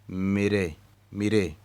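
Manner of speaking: मेरे said as mi-re, not me-re; correct pronunciation. Shown as a demonstration. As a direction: say मेरे with a short i: mire. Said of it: "इसको आपने मेरे नहीं पढ़ना". (मेरे को मिरे पढ़ें)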